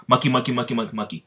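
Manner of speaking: lightly chanted monkey cry; monkey's battle cry. Acted. Imitating Star Monkey's stand cry, lightly chanted. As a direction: rattle off the repeated cry, lightly acted. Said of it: "What is his cry".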